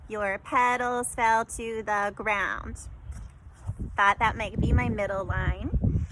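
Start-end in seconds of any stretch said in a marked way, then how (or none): 0.1-2.9 Your petals fell to the ground, slow, syllable by syllable; counting syllables slowly. Shown as a demonstration. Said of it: "a seven-syllable line that reads".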